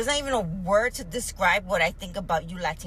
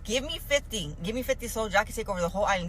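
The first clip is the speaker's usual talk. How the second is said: mock Columbus; 3 semitones higher, faster than usual. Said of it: "told the king".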